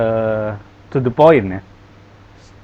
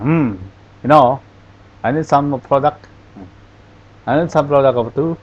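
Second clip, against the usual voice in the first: mock Irish or Scandinavian lilt, words blurred; unclear Irish accent; 3 semitones higher, 3 dB louder than usual. Shown as a demonstration. Teacher mimics unclear Irish speech for class, blurred accent. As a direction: imitate a hard-to-follow Irish accent. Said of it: "saya memperagakan logatnya ini apa, Irlandia atau Skandinavia".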